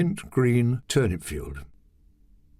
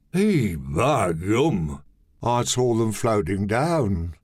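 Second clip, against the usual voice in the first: cheerful grin; slower than usual. Acted. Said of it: "Curly grinned".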